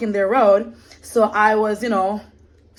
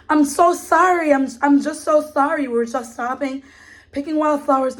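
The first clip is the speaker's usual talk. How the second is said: calm apology; 4 semitones higher than usual. Retold or imitated. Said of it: "I calmly said to him".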